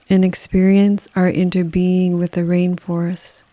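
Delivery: calm, unhurried meditation delivery with long pauses; guided meditation. Acted. Yoga nidra guide leading listeners through a rainforest, calm guided meditation. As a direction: guide the listener gently, leaving space after each phrase. Leads a forest bathing meditation.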